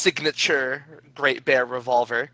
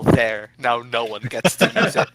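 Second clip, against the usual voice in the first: louder, hammed-up character yell; mock yell; 6 dB louder than usual. Player acts out Paulson spiting the rowboat, mock yell. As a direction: call it out in a half-laughing mock shout. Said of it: "going to shoot the rowboat and yell".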